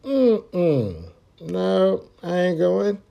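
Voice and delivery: high, alarmed voice of the other driver; the other driver, spooked, refusing; imagined other driver. Retold or imitated. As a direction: play the scared driver backing out. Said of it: "that motherfucker probably thinking like".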